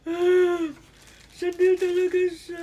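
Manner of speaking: loud, high exclamation of joy; overwhelmed delight. Real, not acted. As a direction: cry out in happy disbelief. Confirms the bag is genuine. (sobrang tuwa, hindi makapaniwala)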